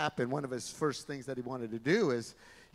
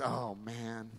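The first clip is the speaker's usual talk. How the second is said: gloomy pessimist; 4 semitones lower than usual. Acted. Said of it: "a pessimist is someone that says".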